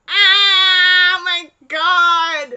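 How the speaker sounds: very high, loud screams of "yes"; ecstatic shouting. Real, not acted. Player winning the wrestling date, ecstatic high screams. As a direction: scream in pure victory. Celebrating the win.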